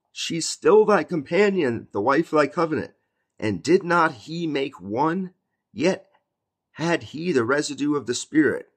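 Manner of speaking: preacher declaiming scripture; preached scripture. Acted. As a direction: proclaim the verse to the congregation. Reads on, raised preaching.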